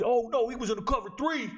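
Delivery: high-pitched mock know-it-all fan; ignorant sports fans. Barbershop fan wrongly explaining the coverage, high mocking voice. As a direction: mimic a clueless fan up high. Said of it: "They'll just be".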